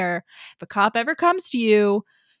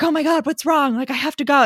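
higher, urgent retold worry; mock alarm; 4 semitones higher, 4 dB louder than usual. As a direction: act out a worried rush to help. Retold panic at urgent summons.

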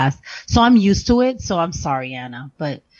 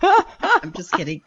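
laughing; 10 semitones higher, slower than usual. Real, not acted. Joking after teasing the hosts.

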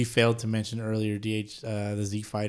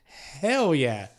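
much higher, squeaky mock disbelief; mock surprised; 9 semitones higher, much slower than usual. Host retelling new episode news, mock surprised then thrilled. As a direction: act out the happy shock. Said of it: "I was like".

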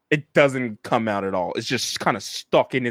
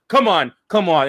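pleading captive; 4 semitones higher, 4 dB louder than usual. Acted. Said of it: "He's like".

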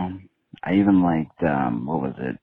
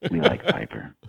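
put-on baby talk; 10 semitones higher than usual. Talking to the dog Piper.

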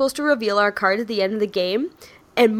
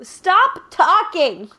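slow, higher playful scolding; mock stern; 8 semitones higher, much slower than usual. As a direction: tell him off in fun. Mock scolding laughing co-host.

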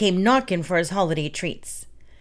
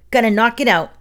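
raised, louder goblin voice; lightly voiced goblin, louder; 4 semitones higher, 5 dB louder, faster than usual. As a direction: bark it like an impatient goblin. Goblin voiced in read story.

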